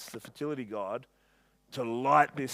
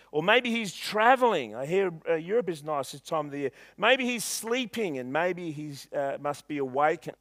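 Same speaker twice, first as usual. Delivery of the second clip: sarcastic taunt. Retold or imitated. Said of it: "Elijah's a bit of a smart aleck".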